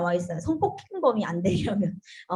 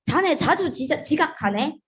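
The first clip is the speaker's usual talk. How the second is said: scolding boss; 5 semitones higher than usual. Shown as a demonstration.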